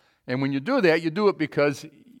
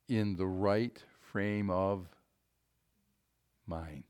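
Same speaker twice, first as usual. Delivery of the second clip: softer, slow, falling away to near silence; quiet and slow; 4 semitones lower, 5 dB quieter, much slower than usual. Shown as a demonstration. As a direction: let it sink down to a hush. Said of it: "quietly just putting me".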